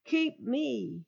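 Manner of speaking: a hint of Judah pleading; begging. Judah begging the harsh ruler to take him instead, lightly pleading. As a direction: beg the ruler to spare the boy. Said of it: "Judah begged".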